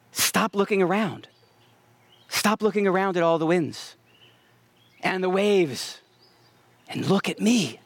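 gentle appeal with long pauses; loving, tender. Acted. Preacher voicing Jesus to troubled followers, lovingly and tenderly. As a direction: speak each phrase tenderly, letting it settle. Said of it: "he says it lovingly. He says it tenderly".

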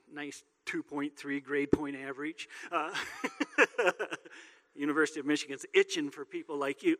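teasing sarcasm with a laugh in it; sarcastic youth pastor. Pretend. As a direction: needle the kid like a wry youth pastor. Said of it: "my youth pastor part coming out of me".

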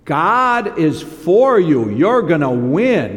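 slow, loud hyped-up promise; flattering prophets. Retold or imitated. Prophets flattering Ahab, slow hyped-up promise. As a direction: pump the king up, drawn out.

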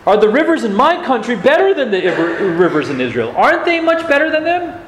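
a hint of a scornful general; mock indignant ranting, lightly voiced; Naaman's rant. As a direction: scoff at the foreign river, half-acted. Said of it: "As Naaman continues his rant".

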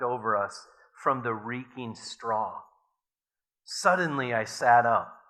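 measured, earnest reading aloud; story reading. A narrator's reading. Preacher reading a memoir to the congregation, earnestly.

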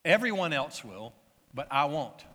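emphatic quoted vow, firmly weighted. Retold or imitated. Disciple answers Jesus's prediction of betrayal, emphatic. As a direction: declare it with emphasis. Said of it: "He says emphatically".

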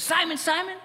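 name him like a parent getting attention; mother-style name call. Retold or imitated. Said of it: "in the way a mother sometimes uses the middle name".

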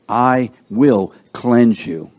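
"I" set apart and stressed in "I will cleanse you"; slow, deliberate words, leaning on "I". Shown as a demonstration. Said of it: "where is the emphasis there".

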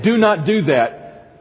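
firm, slow command. Shown as a demonstration. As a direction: lay down the rule, slowly.

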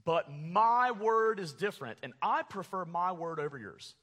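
emphatic retort, leaning hard on MY; defiant Jonah. Acted. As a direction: argue back at God with insistence. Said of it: "It's almost like Jonah saying this".

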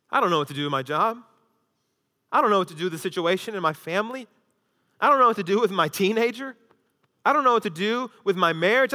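rapid, rising run of worries; a burdened churchgoer spilling out troubles; overwhelmed believer. Pretend. Preacher voicing his flock's anxious worries.

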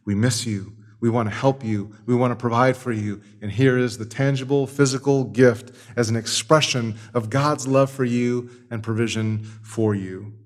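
soft, tender message from the church; voicing the church. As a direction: speak softly, like a loving letter to a prisoner. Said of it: "a whole church is saying".

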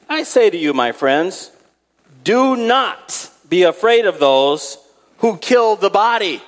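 high, ringing preacher's delivery; emphatic scripture reading. Acted. Preacher reads Christ's words to the congregation, emphatic. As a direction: proclaim the verse with weighty stresses.

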